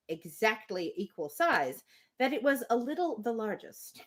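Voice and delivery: measured, even storybook reading; steady literary narration; reading a novel aloud. Acted. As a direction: read the passage to the group like an audiobook.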